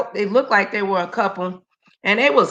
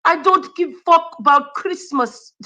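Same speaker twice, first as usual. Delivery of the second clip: mock Russian accent; 3 semitones higher than usual. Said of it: "she a mean Russian lady".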